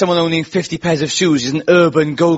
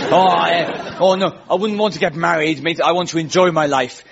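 lightly put-on Essex voice; Essex accent. Essex friends objecting to marriage, light Essex accent. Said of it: "many of them were from Essex".

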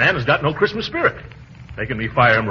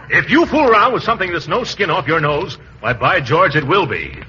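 mild blustering threat; losing his temper; 3 semitones higher, 3 dB louder than usual. Acted. Gildersleeve warning Llewellyn off his affairs, blustering temper. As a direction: bluster indignantly, rising at the start. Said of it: "don't lose your temper".

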